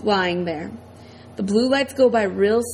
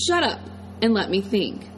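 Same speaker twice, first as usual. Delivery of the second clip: sharp order. Acted. Father snapping at Iggy.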